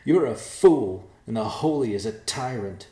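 loud, high, scornful; contemptuous taunt. Acted. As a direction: fling the insult. Yolana taunts messenger.

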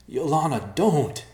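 calling out. Acted. Ben calls out in alarm.

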